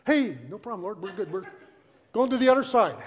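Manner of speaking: light, laughing brush-off; mock nonchalance. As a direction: play it casual with a chuckle. Acts sheepish Peter after the calm.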